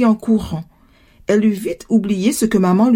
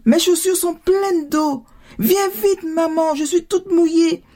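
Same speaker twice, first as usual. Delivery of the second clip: put-on high, pleading little-girl cry; urgent child's wail; 8 semitones higher than usual. A narrator's reading. Daughter with shoes full of water, urgently calling. Drenched child keeps crying out.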